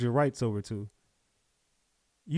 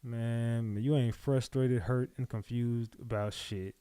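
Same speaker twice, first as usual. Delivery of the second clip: scornful dismissal; 5 semitones lower, 9 dB quieter, slower than usual. Real, not acted. Host dismisses interviewee's feelings.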